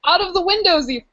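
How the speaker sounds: hammy Cockney, dropping the H's; mock Cockney maid. Maid telling sir of her fright, mock Cockney accent. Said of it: "supposed to sound, like, really Cockney".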